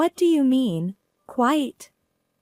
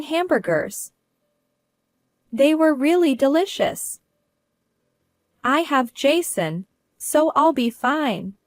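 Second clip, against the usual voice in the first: put-on higher and louder, gushing about her boyfriend, slowing at the end; cheerful; 6 semitones higher, 3 dB louder than usual. Daughter bragging about boyfriend to mom, cheerful high voice. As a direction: glow with delight over him. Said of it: "Her cheerful tone made it clear how much she liked Jason".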